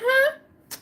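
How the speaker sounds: high shocked huh; stunned. Retold or imitated. Hearing the pregnancy news, high shocked huh. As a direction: sound floored. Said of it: "I was like".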